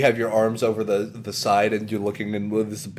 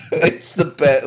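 raised, louder mock-hyped YouTuber; terrible Video Game Donkey; 5 semitones higher, 6 dB louder, slower than usual. Podcaster imitating a YouTuber praising his favorite game, hammed-up hype. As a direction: gush like an over-excited YouTuber. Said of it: "I'm gonna do a terrible Donkey impression".

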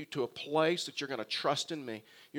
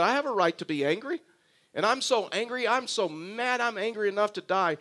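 higher-pitched, indignant protest; self-justifying anger; 5 semitones higher than usual. Acted. Jonah justifying his anger to God, mildly indignant. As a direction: defend your anger, mildly hammed-up. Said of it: "justifies his anger".

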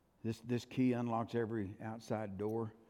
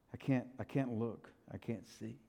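overwhelmed; 7 dB quieter than usual. Acted. Acted John, overwhelmed before Jesus.

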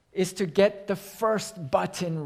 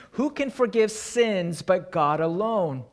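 outraged exclamation. Retold or imitated. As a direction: hurl the question like an offended scribe. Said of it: "They exclaim in verse seven".

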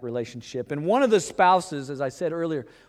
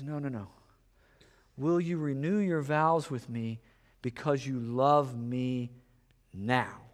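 gentle Jesus; 4 dB quieter than usual. Retold or imitated.

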